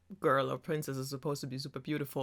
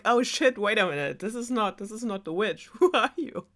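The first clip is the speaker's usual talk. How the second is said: high-pitched mock alarm; hammed-up startled girl; startled Rapunzel; 5 semitones higher than usual. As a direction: act out a sudden realisation, pitch jumping up. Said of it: "Rapunzel noticed".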